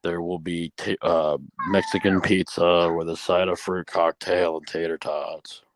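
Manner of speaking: slow, droning school announcement; monotone announcement. Retold or imitated. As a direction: read the lunch menu like a bored principal. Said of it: "give the morning announcements and you fell asleep".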